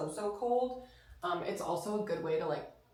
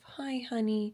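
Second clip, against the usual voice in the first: pet talk; 4 semitones higher, 3 dB quieter than usual. Real, not acted. Cooing greeting to the dog.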